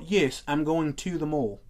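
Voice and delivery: slow, mock British accent. Host mocking how British people talk, mock British accent. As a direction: lightly imitate a British speaker. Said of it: "they can look at you and be like".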